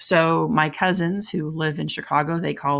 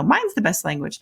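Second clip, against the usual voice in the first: mock boasting; 4 semitones higher than usual. Acts out rival language speakers.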